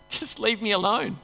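amused, half-joking leave me alone; laughing brush-off. Retold or imitated. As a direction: chuckle while you brush them off. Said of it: "we just go".

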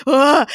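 loud, high exasperated "ugh"; high, hammed-up groan of alarm; mock alarmed groan. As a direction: imitate two people freaking out in one noise. Both characters retold as alarmed.

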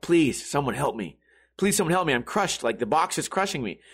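ordinary delivery

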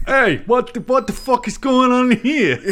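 loud, high, hammed-up American accent; awful American accent. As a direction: belt it out in a deliberately bad American accent, laughing.

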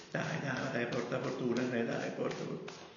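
high coaxing voice. Retold or imitated. Imitating a friend urging him to scratch the ticket, high and coaxing. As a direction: coax him like a pushy well-wisher. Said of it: "e lui mi fa così".

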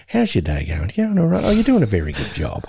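lightly voiced chatty old man at the checkout; a hint of a doddery old bloke making small talk; generic old person. Old man chatting to the young checkout worker, lightly voiced. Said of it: "That's just generic old person".

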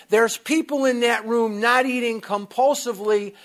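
loud insistent mock yell; retold yelling. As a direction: keep hammering it at him. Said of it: "he was yelling at me".

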